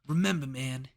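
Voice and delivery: lightly mocked Brooklyn accent; forced Brooklyn accent. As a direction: imitate a bad actor forcing a Brooklyn accent. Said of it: "it was such a forced accent".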